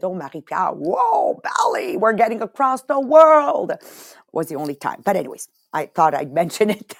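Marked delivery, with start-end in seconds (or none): 0.0-3.7 excited. Retold or imitated. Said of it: "I said".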